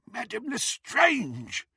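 high, slow startled goblin; a goblin caught off guard; nasty nasal goblin sneer. A narrator's reading.

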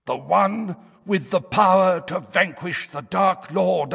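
high, harsh, hoarse fortune teller; trance prophecy voice. A narrator's reading. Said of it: "in the harsh, hoarse tones".

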